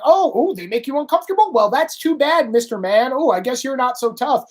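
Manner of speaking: lightly voiced taunting mockery; mocking AOC taunting. Mocking a politician taunting a tough guy. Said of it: "She sits around going".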